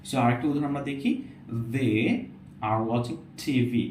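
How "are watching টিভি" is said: টিভি with a breathy ঠ; slow aspirated টিভি. Shown as a demonstration. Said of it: "অনেকটা ঠয়ের মতো".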